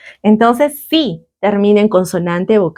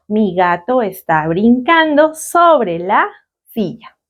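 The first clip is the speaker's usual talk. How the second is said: slow translation; slower than usual. Shown as a demonstration. Teacher translates the example slowly.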